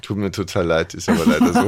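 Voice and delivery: apologising with a held tongue; holding tongue. Pretend. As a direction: keep the tongue still. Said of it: "wirst du jetzt die ganze Zeit so sprechen".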